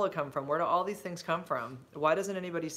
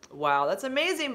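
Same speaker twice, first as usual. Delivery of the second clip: impressed surprise; 9 semitones higher, 4 dB louder than usual. Real, not acted. Reacting to viewer's age.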